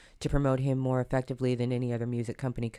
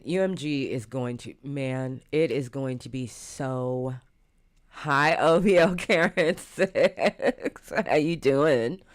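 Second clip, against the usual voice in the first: talking while chewing gum; words round a wad of gum; 3 dB louder, slower than usual. Real, not acted. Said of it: "sorry, I'm chewing gum".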